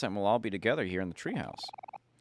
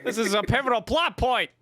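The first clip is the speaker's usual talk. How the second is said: high, loud, hammed-up announcement; mock dramatic; 13 semitones higher, 5 dB louder than usual. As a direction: announce it like a big reveal.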